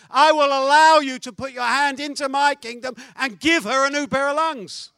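loud, commanding divine voice; booming voice of God. Acted. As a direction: proclaim it like God speaking. God's voice in sermon story.

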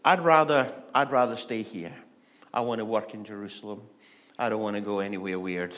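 comic refusal, hammed-up; reluctant Paul. Paul protests his calling, loud then fast and grumbling. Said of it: "And Paul would be going".

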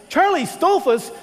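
Tony's jaw drops as it fully sinks in; astonished exclaim. Retold or imitated.

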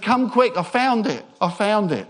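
put-on boy calling out, high and loud at first; excited yell. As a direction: yell it to granddad, easing off slightly. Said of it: "he yelled for his granddad".

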